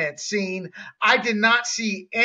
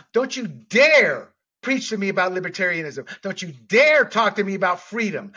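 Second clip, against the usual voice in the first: fired-up, raised voice; heated yelling. Real, not acted. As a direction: hammer each line home, passionate. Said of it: "he doesn't yell at me when we talk on the phone about these issues, like, as much as he just did".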